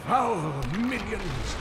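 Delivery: alarmed shout. Acted. Old man fending off undead.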